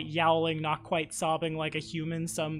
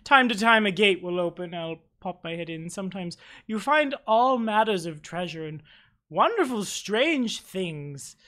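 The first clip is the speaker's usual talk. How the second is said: lightly raised, rambling NPC voice; mild fey matron voice; lightly voiced eccentric elder; 3 semitones higher, 3 dB louder than usual. GM keeps NPC voice.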